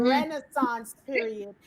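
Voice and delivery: slow, drawn-out Renaissance period; showing off. Real, not acted. Repeating the big word for y'all, drawn out. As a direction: stretch the big word out with relish.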